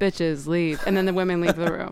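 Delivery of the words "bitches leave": dead level, low, flat monotone, zero inflection. Retelling a man entering a room and ordering the women out: flat monotone. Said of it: "in a monotone voice. He doesn't say it with any inflection".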